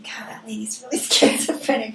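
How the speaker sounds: fast whisper of imagined listeners; whispered aside. Retold or imitated. Guest whispering what podcast listeners might think. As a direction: whisper it quickly, half joking.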